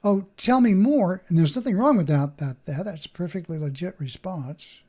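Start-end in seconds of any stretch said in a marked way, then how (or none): 0.0-1.2 inviting. Shown as a demonstration. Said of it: "a story where I can say".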